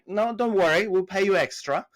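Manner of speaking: reassuring client. Retold or imitated. Client promises seller extra pay, retold reassurance. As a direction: lift the voice to wave worries away.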